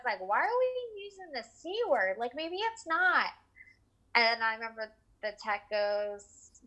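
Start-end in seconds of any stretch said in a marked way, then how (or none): 0.2-3.3 shocked disbelief. Retold or imitated. Her shocked reaction to the doctor.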